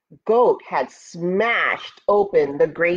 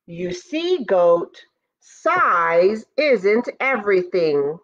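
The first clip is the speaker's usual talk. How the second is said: slow, lightly voiced victory cry; triumphant ant; slower than usual. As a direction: gloat over the beaten goat. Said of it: "cried Ant".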